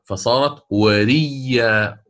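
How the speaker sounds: وريا said slowly with a doubled ya, no hamza; demonstrating the reading. Shown as a demonstration. Teacher shows students how وريا sounds, slowly. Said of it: "وريا هكذا".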